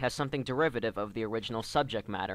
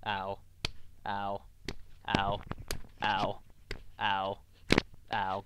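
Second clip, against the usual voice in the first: short pained ows while slapping self; 2 semitones lower, 4 dB quieter, much slower than usual. Real, not acted. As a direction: yelp ow after each slap. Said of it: "this is starting to hurt".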